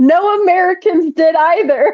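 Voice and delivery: put-on high, shouted yell. Speaker retells a crowd member answering a megaphone protester, imitating someone yelling back. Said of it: "somebody yelled back at him".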